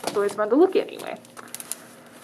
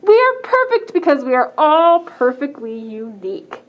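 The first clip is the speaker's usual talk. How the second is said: proud pigeon flock; 3 semitones higher, 4 dB louder than usual. Acted. Librarian reading the pigeon flock to kids, higher, louder and proud. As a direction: puff up like a smug flock of pigeons.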